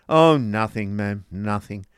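lightly rough, loud bitter retort. A narrator's reading. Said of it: "rough and bitter voice".

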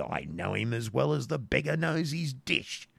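bold friar, pitch climbing high through the line. Acted. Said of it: "replied the friar boldly".

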